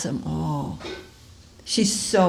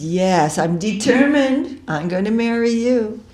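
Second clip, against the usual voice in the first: higher, louder, pushy and insistent; impatient insistence; 4 semitones higher, 5 dB louder than usual. Retold or imitated. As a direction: refuse to take no for an answer. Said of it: "she gets really impatient".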